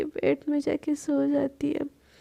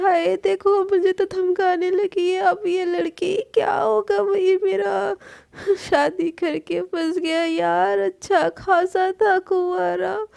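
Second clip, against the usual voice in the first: higher, whining put-on lament; higher mock-tragic whine; whiny mock drama; 4 semitones higher, 3 dB louder than usual. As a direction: play the wronged bride for laughs. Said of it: "सना को ऐसे नौटंकी करता हुआ".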